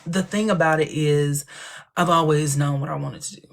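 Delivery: a hint of a polished guest answer; mock talk-show guest. Guest telling Seth about her calling, a touch polished. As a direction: answer Seth like a poised celebrity. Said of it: "And I'll be like".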